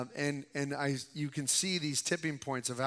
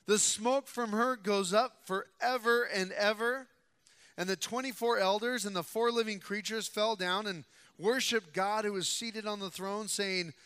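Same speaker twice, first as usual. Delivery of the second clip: measured, emphatic pulpit reading; Scripture reading; 3 semitones higher than usual. A narrator's reading. Preacher reading God's judgments to the congregation, emphatic proclamation. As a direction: proclaim each phrase with weight.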